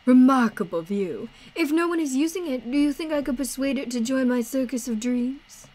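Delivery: lightly voiced courteous showman; theatrical game character. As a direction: read it as a grand, courtly companion. Voices Idris's game dialogue.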